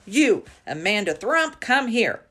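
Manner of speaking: high loud furious summons; shouting. A narrator's reading. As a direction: bellow it at the child. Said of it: "she was shouting".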